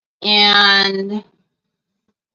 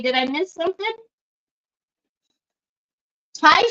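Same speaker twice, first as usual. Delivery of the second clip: ordinary talk, nothing marked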